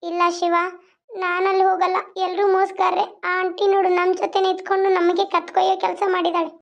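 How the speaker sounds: high put-on girl's voice, fretting; a frightened village belle complaining about the loafer. Heroine refuses to go.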